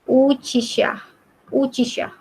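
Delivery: "Uchisha" repeated, syllable by syllable; pronunciation demo. Shown as a demonstration. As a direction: lengthen the u of "Uchisha". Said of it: "yang ini bacanya uchisha".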